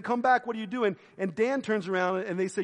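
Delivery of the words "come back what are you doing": raised, higher voice imitating a yell; mock yell. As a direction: call after them in a mild imitated shout. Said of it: "He's yelling at them, saying".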